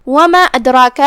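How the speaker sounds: وَمَا with its long ā held out; vowel lengthened. Shown as a demonstration. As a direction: stretch the ā of وَمَا before أَدْرَاكَ. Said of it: "مد جائز منفصل ہے". (وَمَا میں مد کو کھینچ کر)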